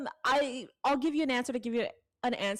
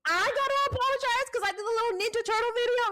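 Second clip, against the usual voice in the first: defiant retort; 12 semitones higher, 5 dB louder than usual. Retold or imitated. Telling a YouTube commenter off, loud and defiant. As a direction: throw the comeback right back at him. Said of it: "I was like".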